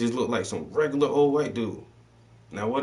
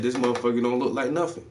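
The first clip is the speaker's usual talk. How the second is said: incredulous; 4 semitones higher than usual. Retold or imitated. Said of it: "She said".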